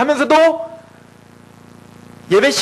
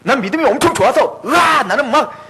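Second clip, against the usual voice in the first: mock boasting believer. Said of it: "웃기지 마세요".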